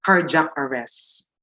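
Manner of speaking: "cardiac" said as two syllables, CAR-jak; Filipino-style pronunciation. Shown as a demonstration. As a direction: run the middle of "cardiac" into a j sound. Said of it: "common in the Philippines that we say".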